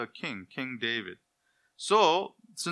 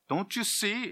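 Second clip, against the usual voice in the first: lightly voiced scoffer, higher pitch; mocking skeptic; 9 semitones higher than usual. Preacher imitating an unbeliever's scoffing, a hint of mockery. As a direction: toss it off like a doubter mocking the faithful. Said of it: "is usually what they say".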